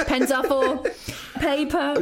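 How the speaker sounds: a touch of a preachy mum voice; mock earnest parent. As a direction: say it like you half believe it. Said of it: "I'm saying it like I'm".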